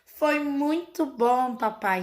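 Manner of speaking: slow, lilting child's reply, lightly voiced; Peppa's singsong answer. Mother imitates Peppa answering Daddy Pig, slow and lilting. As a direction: draw out "Foi muito bom" like a cartoon piglet. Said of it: "Nessa entonação".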